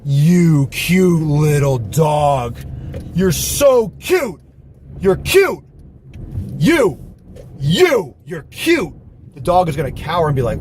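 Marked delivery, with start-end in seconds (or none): 0.0-8.9 loud, drawn-out coo with high swoops; exaggerated dog-directed cutesy voice; talking to a dog. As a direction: gush slowly at a puppy, pitch leaping up. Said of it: "when you talk to a dog".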